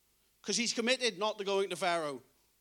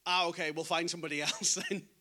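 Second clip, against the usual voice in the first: mock shrug; 5 semitones lower than usual. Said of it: "response Moses wanted was".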